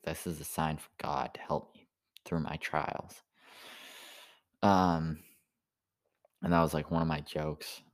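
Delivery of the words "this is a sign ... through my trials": hushed whisper to himself; whispering a sign from God. Retold or imitated. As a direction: whisper it like a secret omen. Retold thought about found cigarettes.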